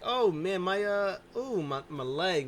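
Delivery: hammed-up injured whine; mock pain. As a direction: fake the hurt leg. Complaining about hurt leg.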